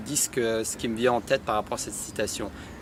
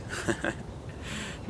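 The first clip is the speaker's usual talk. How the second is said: embarrassed laugh; 11 dB quieter than usual. Real, not acted. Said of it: "désolé pour mon accent".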